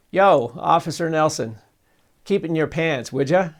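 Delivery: host teasing a cop guest across the party; calling out. Retold or imitated. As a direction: shout a joking warning after him.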